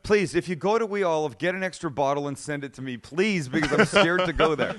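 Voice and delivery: exaggerated imploring appeal; comic pleading. Real, not acted. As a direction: plead with the listeners, half joking. Half-joking plea to the listeners.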